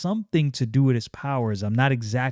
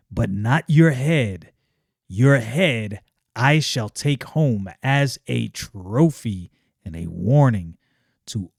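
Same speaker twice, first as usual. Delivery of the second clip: villainous; slower than usual. Acted. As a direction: gloat over the kill, drawn out. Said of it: "got the villainous vibe down".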